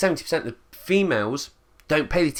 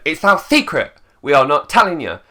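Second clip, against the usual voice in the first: raised, louder, smug brush-off; smug refusal; 2 semitones higher, 6 dB louder than usual. Retold or imitated. Company taunting the army with a louder smug refusal. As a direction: gloat that it's a secret.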